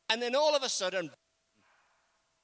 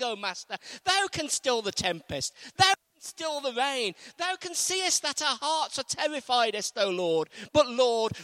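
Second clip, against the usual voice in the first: mock-grand King James praying; mock formal prayer; 5 dB louder than usual. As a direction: ham up an old-fashioned solemn prayer. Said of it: "They didn't talk like that".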